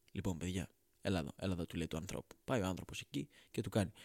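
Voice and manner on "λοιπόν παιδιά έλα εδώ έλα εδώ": low, soft voice of a kindly God. Acted. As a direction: call him over like a gentle God. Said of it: "έρχεται ο καλός Θεούλης ... και λέει". (χαμηλή, ήρεμη φωνή του Θεού)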